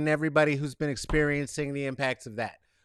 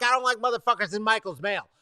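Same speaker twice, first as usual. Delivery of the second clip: ordinary talk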